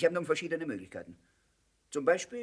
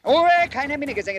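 sharp command; 8 semitones higher, 9 dB louder than usual. Acted. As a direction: snap at him to shut up. Silencing the prisoner sharply.

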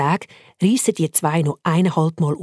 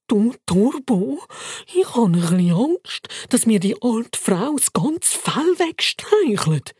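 mild scared whisper; 5 semitones higher, slower than usual. Acted. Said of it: "flüstert der Bacon entsetzt".

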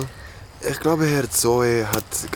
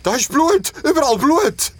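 very high, loud frantic pleading; desperate, terrified insistence; hysterical panic; 6 dB louder than usual. Acted. Hysterical about blood. (hysterisch und panisch)

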